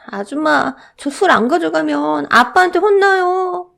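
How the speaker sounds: put-on high, slow child's plea; pleading little boy. Boy begging the shop owner for liquor, high and pleading. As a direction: beg like a scared small boy.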